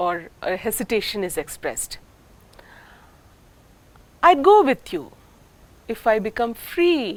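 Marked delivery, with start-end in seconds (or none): 4.3-7.1 hesitant rising afterthought; afterthought rise. Shown as a demonstration. Teacher demonstrating an afterthought tune. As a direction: trail into the condition with a rise. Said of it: "rising tune is also used in some afterthought".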